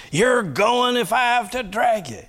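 high, sharp mother voice; mother threatening. Acted. Mother to stubborn son, high exasperated threat. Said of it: "And she says".

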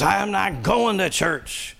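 high, slow, stubborn son; son refusing. Acted. Son refusing his mother, high and stubborn. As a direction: drag out the refusal like a pouting kid. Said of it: "And he says".

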